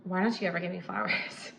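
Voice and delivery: the nagging line, mildly reproachful; mock nagging. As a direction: toss back the whiny complaint. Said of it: "That versus".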